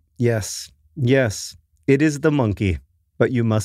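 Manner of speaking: put-on Polish accent. Speaker quoting a woman's reply to them, in a thick Polish accent. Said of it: "in a very thick Polish accent".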